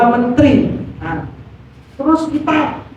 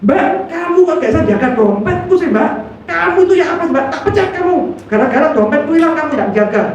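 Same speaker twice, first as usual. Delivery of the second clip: higher, fast mock scolding of the maid; 4 semitones higher, faster than usual. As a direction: snap at the maid over a lost wallet. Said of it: "masa kita marah".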